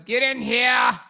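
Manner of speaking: a lightly voiced campy fishy take on get in here. Shown as a demonstration. Redoing the fan's line in her own fishy voice. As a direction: toss it off with sassy feminine flair. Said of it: "In my fishy voice".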